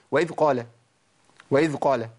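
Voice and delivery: وإذ قال with the ذ barely heard; swallowed dhal. Shown as a demonstration. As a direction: let the ذ in وإذ almost vanish. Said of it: "فين الذال يا عم".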